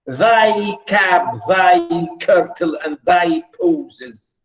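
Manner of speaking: deliberate, drawn-out verse reading with line pauses; poem recitation. Acted. Teacher reading the nymph's reply to class, poem recitation. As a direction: declaim each line, lifting its opening and falling at the end.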